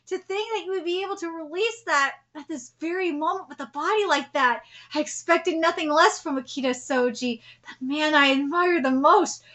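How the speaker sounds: lightly voiced respectful rival; quiet character voice. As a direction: read it as a dying swordsman's tribute. Reads a character's lines.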